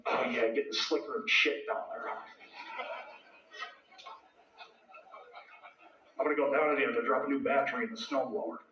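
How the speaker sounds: put-on thick North Dakota accent, murmured. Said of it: "put my North Dakota accent on extra thick".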